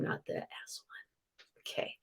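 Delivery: hushed, voiceless aside; whispered aside. Real, not acted. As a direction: drop to a whisper for the confession. Aside about the swear word.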